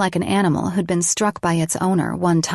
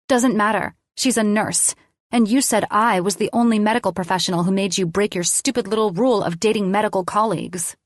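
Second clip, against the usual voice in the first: accusing; 3 semitones higher, faster than usual. Acted. Lainey accusing Colin.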